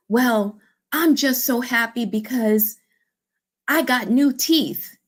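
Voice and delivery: high, slow, beaming imitation of a proud lady; lightly acted delight; proud joy. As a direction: show off the new teeth. Lady proudly shares news.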